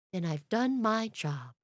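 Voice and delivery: lightly voiced storybook bear, unhurried; a hint of a gentle bear, slowly; slow, understated bear impression; Winnie the Pooh. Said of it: "And as Pooh".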